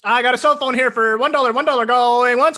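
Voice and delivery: fast, loud auction patter; auctioneer. Pretend. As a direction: rattle off bids like an auctioneer. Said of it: "if you're auctioning something, what would you say?".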